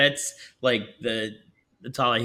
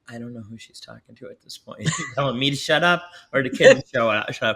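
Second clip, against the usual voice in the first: confused, laughing; faster than usual. Retold or imitated. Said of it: "and I'm like".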